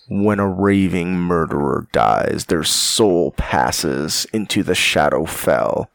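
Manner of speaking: slow, low ominous storytelling; ominous narration. Acted. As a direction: read it like dark lore by the fire. Reads the monster lore.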